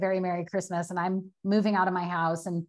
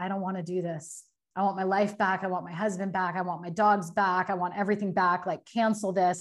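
put-on crying and sobbing. Retelling breaking down in a store aisle to a best friend: retelling own crying. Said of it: "I started bawling, crying".

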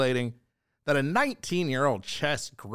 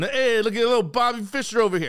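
put-on drunken New York guy accent, pitched up; 9 semitones higher, 4 dB louder than usual. Doing a character of the drunken New York guy, put-on drunken New York accent. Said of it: "my character of the drunken New York guy".

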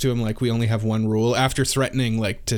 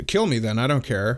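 flat deadpan character voice. Quoting a character called deadpan: deadpan Otokawa voice. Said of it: "He's so deadpan".

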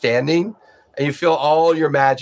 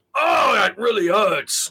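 put-on monster voice, higher; 7 semitones higher than usual. Voicing the beholder as a crossbow bolt hits it: beholder voice. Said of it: "you hear the beholder go".

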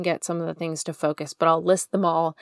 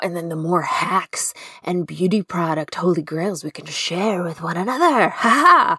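villainous, scheming evil genius voice. Show host asking listeners to rate and review, in an evil genius voice. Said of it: "That was my evil genius voice".

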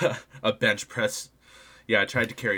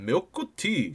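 English word with Japanese accent, slightly raised pitch; 5 semitones higher than usual. Acting out a japanese speaker answering a question: english word with japanese accent. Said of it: "it's just the English word, but, like, with an accent".

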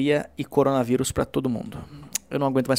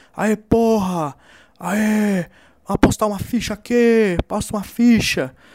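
rowdy, loud, drawn-out shouting; 8 semitones higher, 5 dB louder than usual. Retelling how a man playing pool kept shouting during the show: retelling a man's shouting. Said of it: "Ele tava gritando também".

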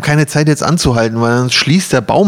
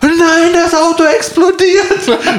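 mock panic, very high pitch, very slow and drawn-out. Speaker retells the car starting to smoke, imitating her sister's panic. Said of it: "meine Schwester ist schon voll panisch".

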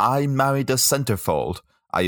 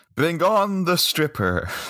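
enthusiastic mock-regal tone, pitched much higher; 10 semitones higher than usual. Retelling a man's line at his bachelor party, mock-regal enthusiastic tone. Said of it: "regal tone or enthusiasm as I said it".

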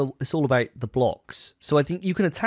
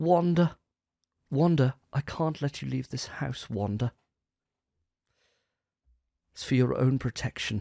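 put-on android voice. Asked for a best Vision impression, speaker addresses Wanda in a Vision impression. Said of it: "I'd like to hear your best Vision impression".

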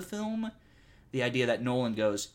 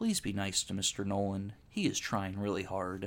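low, crushed, utterly defeated, very sad voice; 4 semitones lower, 4 dB quieter than usual. Retelling what Colin said while everyone went quiet, mock-sad Colin impression. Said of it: "just the saddest voice I've ever heard him".

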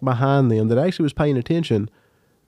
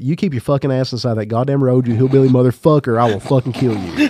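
usual speaking voice

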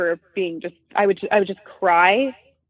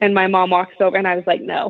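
plain

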